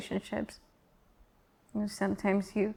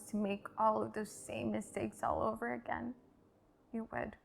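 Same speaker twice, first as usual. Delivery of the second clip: softer, subdued spoken-word ending; quiet resignation; 7 dB quieter than usual. Acted. Poet looking back on regret and shame, soft resignation. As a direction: let it settle softly with long pauses.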